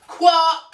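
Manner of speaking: "Quack" high and loud with an altered vowel; mispronounced quack. Shown as a demonstration. Duck testing the bull's letter, "Quack" squawked high and wrong.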